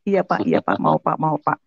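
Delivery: retold giddy, laughing eagerness; eager agreement. Acts out her eager reaction. (mengiyakan dengan antusias)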